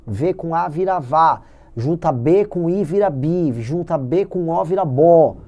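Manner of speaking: "vá" and "bó" drawn out slowly, like a phonics lesson; sounding out words. Shown as a demonstration. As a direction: spell out "V com A vira vá" slowly, stressing each syllable. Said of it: "pra você entender que junta V com I vira vi".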